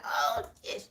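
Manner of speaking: breathy laugh under the words, very soft; a barely voiced "oh, ish" through a laugh; unvoiced laughing mutter. To herself while the room gushes, an unvoiced laughing mutter. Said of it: "I'm just sitting there like".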